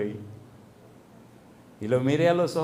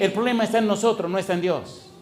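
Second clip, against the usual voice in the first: higher, louder proclamation; preaching declaration; 6 semitones higher, 3 dB louder than usual. Real, not acted. Preacher proclaiming to the church, higher and louder.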